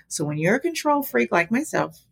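ordinary talk, nothing marked

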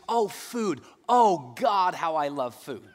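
high, loud swoon over food; Carl's high, loud swoon of longing for food; Carl loving food. Retold or imitated. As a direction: gush about food like a glutton. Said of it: "And then he goes".

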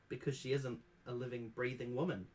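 plain reading voice

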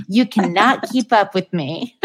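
lightly put-on Southern belle accent, playful. Voicing the dog's dating profile to the guest, light Southern accent. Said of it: "do her Southern accent. You do a perfect one".

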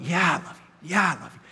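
quietly reaffirm your love; humble reply. Retold or imitated. Peter humbly answers Jesus.

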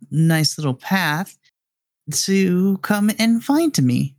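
teasing villain with swooping pitch; mysterious radio villain. Acted. Unseen captor luring them down a path, playfully sinister. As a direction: toy with them, slowing into the invitation.

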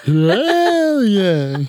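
high, bright hell yay; enthusiastic cheer. Shown as a demonstration. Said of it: "I intensify it by saying".

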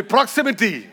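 "proximity" with Malayalam-accented rounded o. Shown as a demonstration. Preacher has the congregation say it after him, Malayalam accent. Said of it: "say proximity in Malayalam accent".

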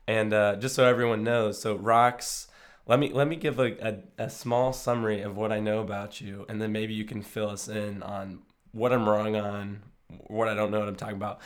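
worn-out, hoarse voice from being sick. Real, not acted. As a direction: talk through a hoarse, tired voice. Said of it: "my voice is kinda shot".

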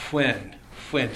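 'When' with a puff of air first; lips pursed. Shown as a demonstration. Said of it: "So it's that puff of air".

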